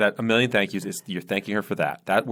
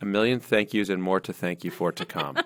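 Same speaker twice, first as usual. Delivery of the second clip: monotone reading with no inflection. A host rereads a written message to the others, a flat reading with no inflection. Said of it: "read it without any poetic inflection".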